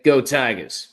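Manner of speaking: quick demo of a Cajun accent. Shown as a demonstration. Sports fan proving he can do Cajun, Cajun accent. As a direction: show off your one-phrase Cajun accent. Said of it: "I can do a Cajun accent".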